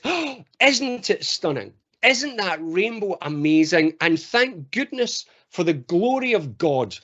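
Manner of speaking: slow, lightly reverent wonder; awestruck believer. Acted. Believer marvelling at a rainbow to the group, awestruck. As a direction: gush slowly at the sacred beauty. Voicing an awestruck religious walker.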